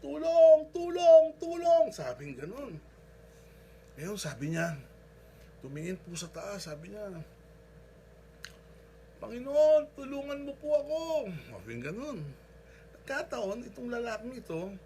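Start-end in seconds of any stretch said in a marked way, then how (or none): 0.0-1.9 desperate loud high yells, higher and louder; frantic cry for help; shouting for help. Retold or imitated. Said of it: "Sigaw siya ng sigaw". 9.2-11.0 high, loud desperate plea to the Lord; pleading shout to God; calling out. Retold or imitated. Man calling to God from cliff.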